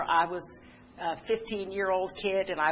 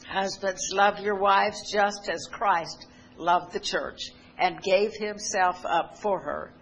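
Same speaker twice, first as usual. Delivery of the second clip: scripture reading; slower than usual. Acted. Preacher reads Ephesians aloud.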